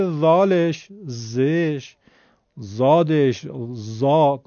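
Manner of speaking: «ذالش، زش، زادش، زا» all with the same Persian z; all one z. Shown as a demonstration. Teacher listing letters a student merges, «ذالش، زادش» with plain z. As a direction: give each letter in «ذالش، زش، زادش، زا» an identical z. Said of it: "اینا همشون یکی هن".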